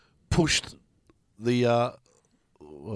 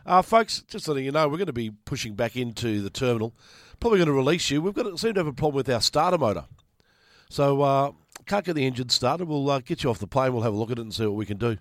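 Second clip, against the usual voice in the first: pilot announcement. Retold or imitated. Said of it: "Pilot comes on air".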